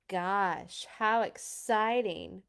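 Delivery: flat sarcastic boredom, slow; deadpan mock enthusiasm; unexcited. Peter bored by the game, slow sarcastic deadpan. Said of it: "in a very unexcited voice".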